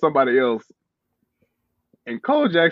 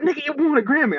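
indignant friend; 11 semitones higher than usual. Retold or imitated. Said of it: "He was like".

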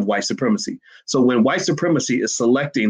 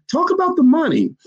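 firm demand. Shown as a demonstration. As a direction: demand it, no wiggle room. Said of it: "I want you to say".

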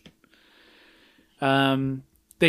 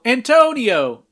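called out a bit higher and louder; mild mock yell; 7 semitones higher, 5 dB louder, slower than usual. Recapping the film, calling out like the director. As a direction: call the name out across the set. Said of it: "We hear Jess yell".

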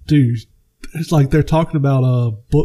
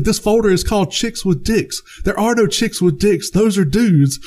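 higher, lightly voiced accusation; mock accusing Wahlberg; 7 semitones higher than usual. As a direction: call him out in a higher put-on voice. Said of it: "He's like".

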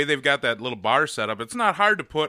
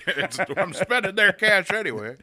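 put-on drunk woman voice; 9 semitones higher, 5 dB louder than usual. Voicing drunk Sue.

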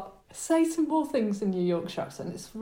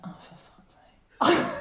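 exasperated; 7 semitones higher, slower than usual. Retold or imitated. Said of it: "I'll just be like".

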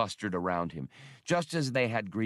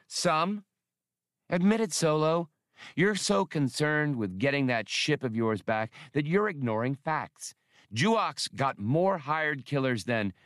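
higher, pushing back hard at Solo; indignant, accusing, raised pitch; heated challenge; 5 semitones higher than usual. Acted.

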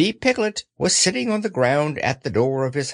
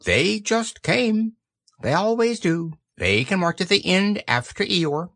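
high, offhand explanation; mildly careless rabbit; 4 semitones higher than usual. Acted. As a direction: dismiss it in a raised voice. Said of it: "explained Rabbit carelessly".

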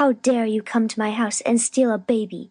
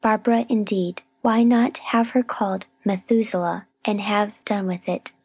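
higher-pitched, stubborn grumbling; grim indignation; 4 semitones higher than usual. A narrator's reading. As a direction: insist grimly, scorning the rival's name. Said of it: "said Miss Rosetta grimly".

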